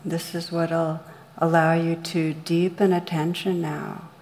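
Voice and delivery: calm, measured meditation guide with long pauses; guided meditation. Real, not acted. Meditation teacher leading listeners through rain on blame, guided meditation. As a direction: guide listeners gently inward, leaving room between phrases.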